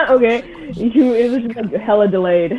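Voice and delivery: tinny, like through a phone. Real, not acted. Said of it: "Why does your mic sound like shit".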